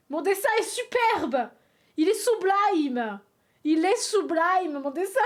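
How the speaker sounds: loud, slow, hammed-up boasting; mock pride. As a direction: proclaim your drawing a masterpiece, tongue in cheek. Mock-proud defence of her drawing.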